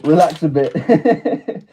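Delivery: "relax a bit" drawn out slowly through a laugh, rising at the end. Real, not acted. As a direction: say "relax a bit" slowly while chuckling, ending on a lift.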